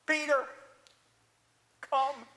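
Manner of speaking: measured call, a pause between the words; Jesus, few words. Shown as a demonstration. Jesus calls Peter out of the boat, sparely. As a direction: call him simply, one word at a time. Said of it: "he talks like this".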